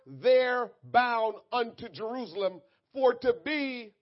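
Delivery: ringing pulpit reading; scripture reading. Real, not acted. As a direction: read the verse out strongly to a congregation. Reads scripture out forcefully.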